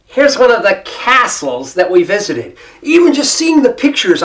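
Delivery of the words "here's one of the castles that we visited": deliberate American vowel on castles; emphatic American-accented restatement; American accent correction. Retold or imitated. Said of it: "slip right into the brogue".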